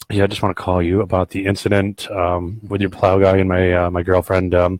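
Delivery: low, subdued, hesitant message; weary voicemail caller. Retold or imitated. Homeowner to plow boss about his girlfriend, low hesitant voicemail. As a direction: imitate a reluctant caller fumbling for words.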